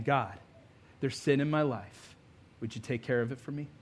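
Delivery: soft, low confession to God; hushed, modest plea; lightly voiced prayer of repentance; humble prayer. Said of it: "it starts with humility".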